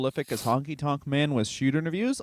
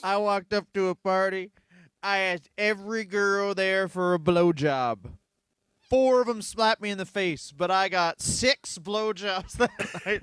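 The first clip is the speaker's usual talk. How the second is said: a hint of a proud sleazeball; imitating coworker; 3 semitones higher than usual. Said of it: "one guy was like".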